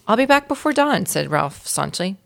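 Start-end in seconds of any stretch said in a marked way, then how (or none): 0.1-1.1 determined. Acted. Ralph's defiant line to family.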